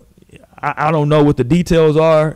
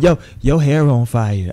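imitating a singer; 4 semitones lower than usual. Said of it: "that nigga said".

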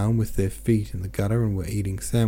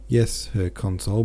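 chewing while talking; mouth full. Acted. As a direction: talk through a mouthful. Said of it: "chewing violently".

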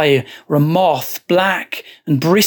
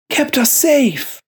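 high, slow, unsettling monk; eerie monk voice; 10 semitones higher, slower than usual. A narrator's reading. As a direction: drawl it like a possessed monk.

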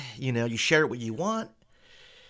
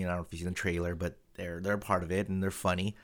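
ordinary talk, nothing marked

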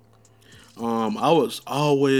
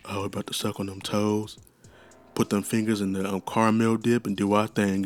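R&B interlude voice. Retold or imitated. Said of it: "that nigga that's in the middle of the songs".

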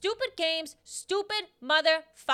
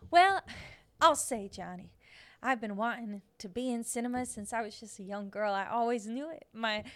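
lightly voiced old Hollywood actress; a hint of a vintage starlet; old-timey starlet interview. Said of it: "a response in an interview, in an old-timey interview".

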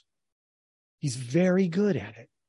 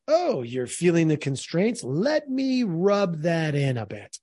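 mock needling. Voicing his imagined needling reply.

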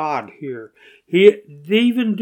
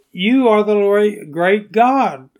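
raised, loud voice praising God; emphatic prayer of praise, pitched up; exalting praise; 5 semitones higher, 6 dB louder than usual. Acted. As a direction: proclaim it upward in worship. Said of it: "prefacing his confession with praise".

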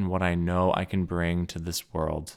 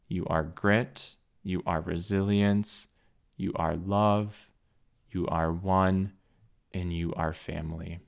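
slow heartfelt affirmations; slower than usual. Real, not acted.

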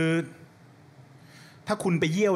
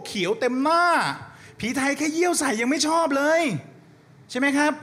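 excited; 9 semitones higher than usual. Real, not acted. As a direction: pump up the crowd, high. Excited comic rant.

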